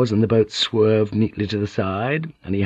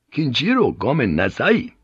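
lightly voiced samurai sentry; firm Japanese warning with swinging pitch; samurai refusal; 4 semitones higher than usual. Samurai stopping the pilot at the sealed door, firm refusal. Samurai intercepts and politely forbids entry.

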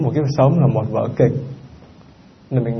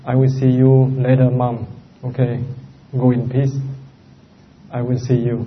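calm farewell. Shown as a demonstration. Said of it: "thì nói".

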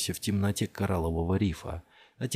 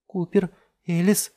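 alarmed; 10 semitones higher, 6 dB louder than usual. A narrator's reading. Jess asks in alarm.

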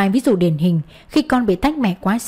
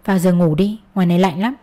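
gentle smile; 2 semitones lower than usual. Acted. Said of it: "Tôi cười nhẹ đáp".

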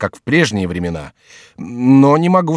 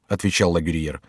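plain reading voice

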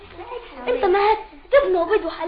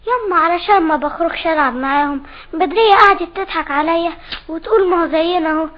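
put-on louder, insistent child's complaint; upset loud protest; 6 dB louder than usual. Child telling mother of Badriya's teasing, loud protest. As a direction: plead your case loudly to mum.

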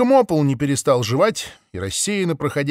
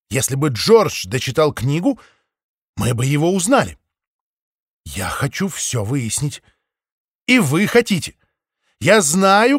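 eager; 3 semitones higher, 3 dB louder than usual. A narrator's reading. Maple continues urging flock.

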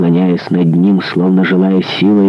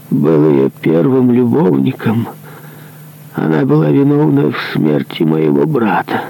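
higher, strained voice of a guilt-ridden executioner; remorseful executioner; 6 semitones higher than usual. Acted. Executioner confessing his grievance to the monk, higher and strained. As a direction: confess the old crime, higher and tense.

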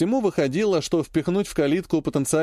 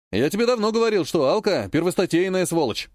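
a gleeful I-told-you-so, pitched higher; 3 semitones higher than usual. Acted. Oleg gloats to his brother about Alka. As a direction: crow with delight. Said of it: "обрадовался Олег".

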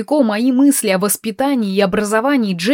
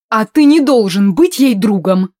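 objecting mother; 5 dB louder than usual. Acted. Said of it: "возразила маменька".

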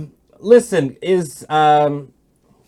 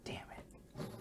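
whispering; 28 dB quieter than usual. Real, not acted. Caught out before commander.

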